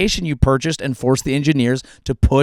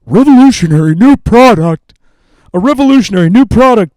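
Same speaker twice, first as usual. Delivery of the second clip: mock product pitch; 7 semitones higher, 12 dB louder than usual. Mocking a founder pitching her revolutionary new product, loud hype. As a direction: sell it like a founder on stage.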